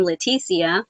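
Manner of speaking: "Leticia" said English-style with a clear T; enunciated T. Shown as a demonstration. Crocheter greeting non-Hispanic people, English-style "Leticia". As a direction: sound out the T in "Leticia". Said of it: "I enunciate the T".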